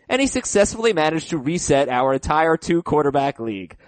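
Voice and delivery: lively email read with dramatic pushes. Acted. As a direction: read the listener's letter aloud, playing up the drama. Reads a listener email aloud.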